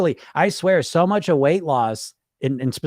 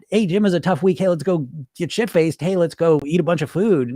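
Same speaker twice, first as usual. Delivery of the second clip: upbeat, egging-on pal, lightly acted; rally a friend to go indulge; mock party buddy; 2 semitones higher, 3 dB louder than usual. Wrong inner voice urging Jim to binge, upbeat. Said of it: "not, not".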